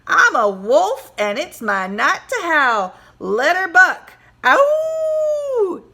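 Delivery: loud, slow swaggering howl; cowboy boast. Acted. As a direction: brag like a wild cowboy, then howl.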